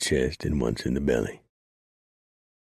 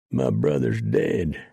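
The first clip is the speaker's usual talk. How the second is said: mild slow wail, a touch louder; 4 dB louder, slower than usual. Acted. Malachi mourns his dead brother, a mild wail. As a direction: lament it slowly. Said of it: "Malachi wailed".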